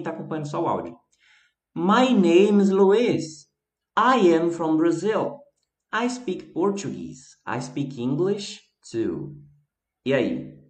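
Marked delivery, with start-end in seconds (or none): 1.7-9.3 slow reading aloud. Shown as a demonstration. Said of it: "Eu vou ler de novo".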